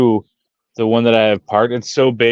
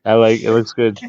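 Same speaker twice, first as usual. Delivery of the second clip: usual speaking voice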